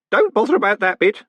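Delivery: put-on high, excited old postman. A narrator's reading. Groat interrupting the golem, excited. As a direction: cut in eagerly, pitched high. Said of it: "said Groat excitedly".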